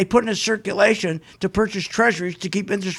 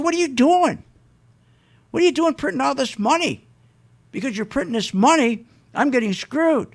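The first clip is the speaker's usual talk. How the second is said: mock screaming worker; 5 semitones higher than usual. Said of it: "they'd be screaming".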